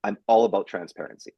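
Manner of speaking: "all" leaned on in "I'm all about transparency"; firm, clarifying "I'm all about transparency"; firm stress on all. Real, not acted. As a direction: make it clear, leaning on "all". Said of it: "let me s-, be clear".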